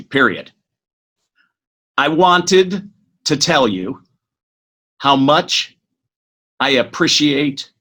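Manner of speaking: slow, spelling out each line with pauses; slow dictation. Shown as a demonstration. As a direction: dictate it slowly, saying the commas and periods aloud. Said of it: "Okay, so you ready?".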